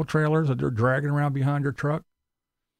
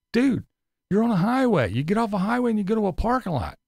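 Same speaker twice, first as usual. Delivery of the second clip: scolding; 6 semitones higher than usual. Real, not acted. Scolding the vlogger.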